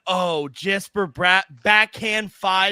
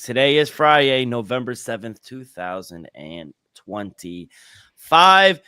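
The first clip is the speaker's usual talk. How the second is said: show-opening announcement; 6 semitones lower, 4 dB louder than usual. Acted. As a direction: open the show, stretching key words. Opens the show.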